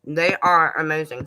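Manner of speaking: talking with a mouth full; chewing tomato while talking. Real, not acted. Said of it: "Sorry, I'm munching on that tomato".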